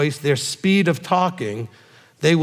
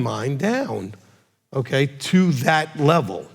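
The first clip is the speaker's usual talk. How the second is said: slow, measured demonstration; bringing it down; much slower than usual. Shown as a demonstration. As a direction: ease down to their level, slowly. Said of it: "has a very soft voice".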